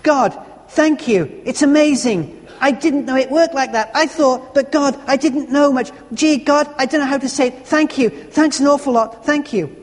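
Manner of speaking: tearful thanks. Retold or imitated. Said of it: "he began to cry and to pray at once".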